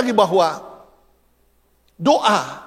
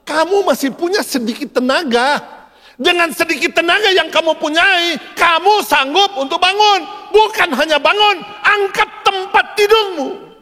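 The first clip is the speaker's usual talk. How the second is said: from raised voice to high, slow, forceful command; building divine exhortation; 8 semitones higher than usual. Acted. The Lord to a man lying sick, rising commanding exhortation. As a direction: urge him up, climbing higher with each phrase. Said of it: "tapi Tuhan bilang".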